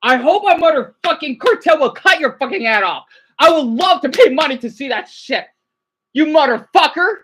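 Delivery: loud, furious cursing at the screen; angry yelling. Real, not acted. Streamer yells curses at the cop on screen, furious. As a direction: rage at the cop in the clip.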